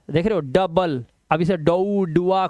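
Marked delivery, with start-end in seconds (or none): 0.4-1.0 डबल with short uh, "dub-bal"; short "a" sound. Shown as a demonstration. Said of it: "अ की आवाज". 1.6-2.5 डौ, डुआ as wrong "dow", "doo-aa" guesses; mistaken reading. Shown as a demonstration. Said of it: "कुछ नहीं करना".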